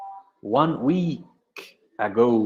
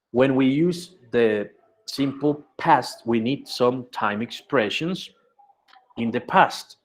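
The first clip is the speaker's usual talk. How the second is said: slow teaching voice; slower than usual. Shown as a demonstration. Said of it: "teacher models slowly".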